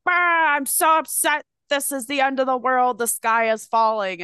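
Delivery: high whiny despair; mock doom-and-gloom. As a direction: ham up the end-of-the-world moaning. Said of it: "he's usually the one that's like".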